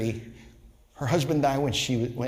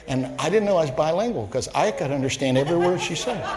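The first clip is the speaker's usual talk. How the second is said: laughing; 4 semitones higher, 3 dB louder, faster than usual. Real, not acted. Joke about cussing.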